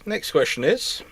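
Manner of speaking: ordinary delivery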